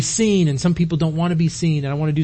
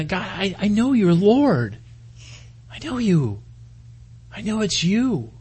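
higher, drawn-out acted plea; tearful Peter; 5 semitones higher, slower than usual. Peter declaring faith to the Lord, pleading and emotional. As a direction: let each declaration rise and fall imploringly. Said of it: "just tears coming down his face".

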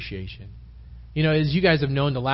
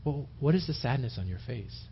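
softer, caring question; gentle concern; 7 dB quieter than usual. Pretend. Preacher voices patient pastor asking someone troubled, gently. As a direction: drop the volume and ask kindly.

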